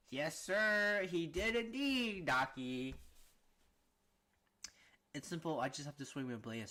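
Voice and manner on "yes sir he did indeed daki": character voice. Acted. Voicing a different demon character.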